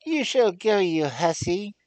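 put-on high, loud scolding of the girl; angry mother shouting. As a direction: yell at the hussy to go. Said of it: "said the mother".

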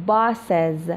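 باسز ending in a voiced "ez" syllable; ez plural ending. Shown as a demonstration. Teacher giving an example after s, باسز with clear "ez" ending.

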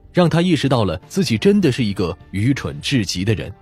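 ordinary talk

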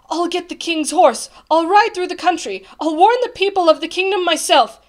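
high, loud declarations; urgent resolve. A narrator's reading. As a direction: announce each step with determination. Bartholomew resolves to warn everyone.

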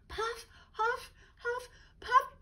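very high, strained huffing; straining puffs. Acted. Wolf straining at the brick house, strained huffing. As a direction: puff it out with all your breath.

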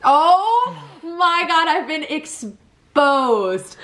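mock embarrassed. Real, not acted. Friend reveals her past.

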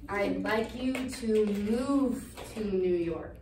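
slow, measured request; deliberate, unhurried plea; careful request. Acted. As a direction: spell it out slowly and carefully. Careful restatement of her request.

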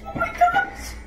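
slight lisp from veneers; with snap-on veneers. Real, not acted. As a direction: teeth covered by shells. Seen 0: Upper veneers worn while laughing; apparently removed near 1.8 seconds.

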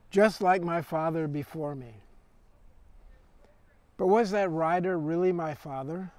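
measured poetry recital with pauses between lines; poem reading. Acted. Poet reads to an audience in Caspar Hauser's voice, measured recital. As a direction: read the verse simply, letting each line land.

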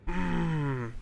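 high yelp of pain; a real ouch; pained surprise. Real, not acted. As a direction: react to tugging your own hair. Just pulled his own hair.

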